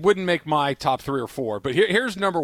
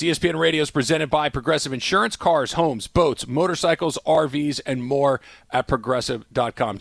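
quick radio sponsor read. Acted. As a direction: rattle off the sponsor line.

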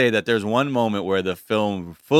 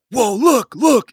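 much higher, louder excited pointing; excited gawking; 12 semitones higher, 7 dB louder, slower than usual. Retold or imitated. Crowd spotting the dancer on stage, high excited calling. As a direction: call out look in shocked delight.

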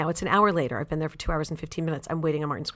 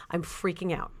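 whispered panic; 7 dB quieter than usual. Retold or imitated. Toilet won't flush.

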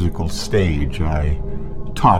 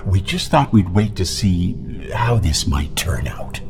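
whispered threat; menacing whisper; 13 semitones lower than usual. Acted. Sinister secret confided.

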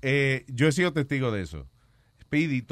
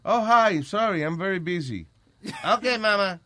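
mock girl's brush-off; 5 semitones higher, slower than usual. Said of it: "Y después".

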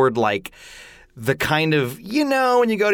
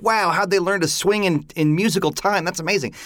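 higher-pitched wowed exclamation; amazed reaction; 5 semitones higher than usual. Acted. An audience member marvelling at the swings, amazed. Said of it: "it makes you go, like".

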